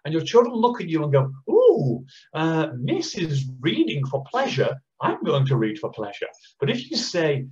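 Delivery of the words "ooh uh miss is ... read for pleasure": imitating an impressed child. Child voiced watching teacher read.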